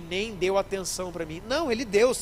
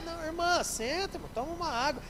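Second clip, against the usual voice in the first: soft soothing; 8 semitones higher, 5 dB quieter than usual. Acted. Pastor soothes the desperate woman.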